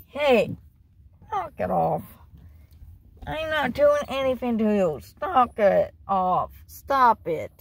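firm falling commands to a pet; real telling-off, emphatic and drawn out; stern scolding. Real, not acted. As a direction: scold the dog, each phrase dropping hard at the end. Scolding the dog for misbehaving.

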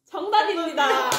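loud bright correct-answer call; quiz host announce. Acted.

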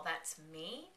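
quiet, hushed "That's me?" like a monster; creepy echo. Retold or imitated. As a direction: echo "That's me?" softly, eerily. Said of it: "the thingy on the other side".

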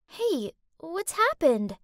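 slow, gentle concern; sincere. Acted. Friend asking upset Shannon what happened, sincere and slow. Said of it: "She sounded so sincere".

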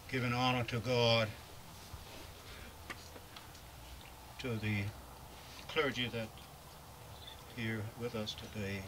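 muffled by a face mask; through a face mask. Real, not acted. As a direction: speak through a cloth mask. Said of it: "pardon my talking through this mask".

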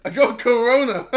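cracking up at his own joke; laughing. Real, not acted. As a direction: giggle the words out as you say them. Repeats line through laughter.

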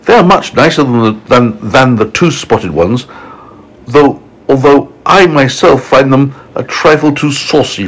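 a touch of snooty storybook lady; lightly voiced ladybird. Ladybird judges her relatives.

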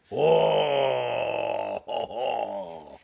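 excited reader's oh ho; delighted oh ho. Real, not acted. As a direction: gasp in joy at the feast. Delighted at Thanksgiving table.

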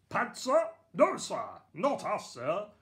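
high, loud barked military reply; bellowing guards. Acted. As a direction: bark it out like guards at attention. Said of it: "they bellowed".

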